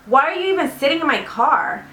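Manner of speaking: mock an annoyed driver demanding an explanation; lightly acted irritated disbelief; retold pissed-off driver. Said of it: "He was pissed".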